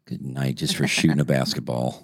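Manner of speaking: put-on old man voice. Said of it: "that sounded so old".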